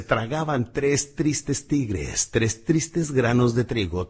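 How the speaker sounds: "Tragaban tres tristes tigres" said slowly, every syllable crisp; over-articulate each t and r slowly; slow clear tongue twister. Shown as a demonstration. Coach demonstrating the twister clearly, slow and crisp. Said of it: "Hay uno muy bueno que dice".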